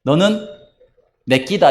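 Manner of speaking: lightly voiced Gyeongsang love confession, 너는 rising; a hint of Gyeongsang dialect, said simply; 경상도 사투리로 살짝. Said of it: "경상도 말로 사랑 고백이".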